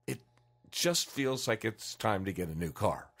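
slow, unhurried, thinking it over; slow kinesthetic customer. Retold or imitated. Salesman imitates a kinesthetic buyer, slow and pondering. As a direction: let the words come out slowly from a gut feeling. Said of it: "The kinesthetic will pause".

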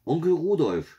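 put-on high, loud child's shout; excited girlish yell. A narrator's reading. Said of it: "schrie Janina".

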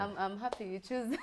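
laughing. Real, not acted. Laughing while declaring love.

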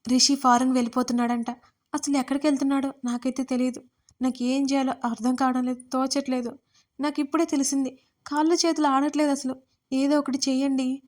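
lightly voiced distress, close to crying; mild tearful telling. Avani tells Madhav of Rishi leaving, mildly tearful. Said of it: "అని ఏడుస్తూనే చెప్పాను".

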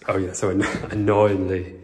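laughing through the word; amused laugh while saying it; chuckling at the annoyance. Real, not acted. Laughing at annoying dog pee.

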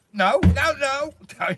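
high, loud, sudden no at the dog; sharp shout. Real, not acted. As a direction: stop the dog pushing in with a loud high cry. Dog pushing into the van.

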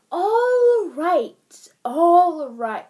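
loud, high, breathless giving in; spluttering surrender. Acted. Shaken leprechaun giving in to Pet, loud spluttering surrender. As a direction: blurt it out as he gives up. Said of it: "the leprechaun spluttered at last".

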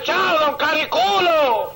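slow, drawn-out mocking hello; teasing greeting. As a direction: stretch "Cariculo" out to needle him. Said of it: "Pasaba el vecino y le decía".

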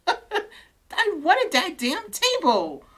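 frustrated giggle through the words; laughing complaint. Real, not acted. Streamer laughing at losing the table, drawn out.

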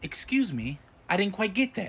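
robotic phone menu voice; automated phone system voice. Acted. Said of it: "automated voice messaging system".

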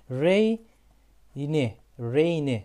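Rainy said reyni, ending in i; model pronunciation. Shown as a demonstration. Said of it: "Y gitti ne oldu".

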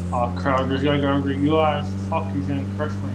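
talking around a candy bar; words through a mouthful of chocolate; mouth full. Real, not acted. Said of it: "You sound like you don't care 'cause you have a candy bar right now".

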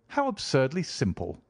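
a touch of wonder as he cries it out; surprised cry. Acted. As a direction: Watson mildly crying out in surprise. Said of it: "I cried".

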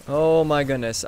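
ordinary talk, nothing marked

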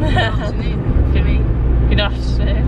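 drawn-out posh host; grand, slow announcer welcome; posh greeting. Pretend.

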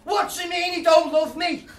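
a hammed-up Liverpool accent. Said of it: "continue now with, uh, Liverpool accent".

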